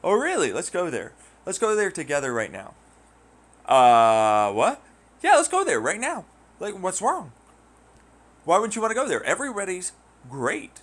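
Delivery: high, loud goading; mock pushy challenge. Challenger daring the speaker to visit, high mock goading. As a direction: taunt them into going there.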